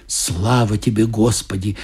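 a mild relieved sigh of thanks; mother, once God has left, a touch relieved. Acted. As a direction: let the fear go out with the words. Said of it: "облегчённо вздохнула мама".

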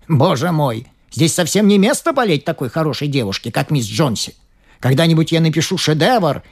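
put-on high-pitched eager old man; excited old man. A narrator's reading. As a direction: blurt it out like a fussy old painter. Berman's excited rant.

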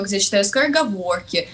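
ordinary talk

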